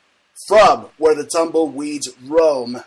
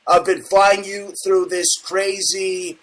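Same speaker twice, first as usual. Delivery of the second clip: excited; 4 semitones higher, 3 dB louder than usual. Real, not acted. Host ramps up.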